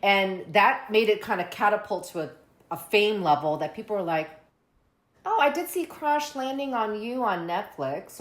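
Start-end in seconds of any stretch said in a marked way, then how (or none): 5.2-8.2 slightly higher, drawn-out viewer's aside; imitating casual viewers. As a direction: voice a casual streamer's slow recollection. Voices people discovering shows.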